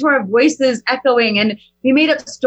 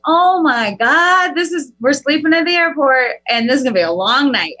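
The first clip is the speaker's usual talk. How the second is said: dismayed groan. Retold or imitated. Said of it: "I'm in this process of like".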